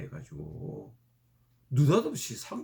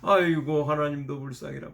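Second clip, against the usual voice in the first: mock wailing lament; 3 semitones higher than usual. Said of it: "막 넋두리를 하고 대방통곡을".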